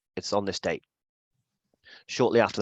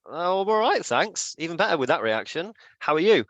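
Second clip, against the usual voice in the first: higher, flustered surprise; caught off guard; 7 semitones higher than usual. Retold or imitated. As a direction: stammer out the thanks off balance. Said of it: "like a deer in the headlights".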